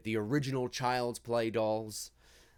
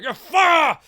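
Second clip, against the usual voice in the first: a cut-off high, loud yell; imitating a pissed-off Chucky; 12 dB louder than usual. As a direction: snap it out in rage. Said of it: "he's pissed".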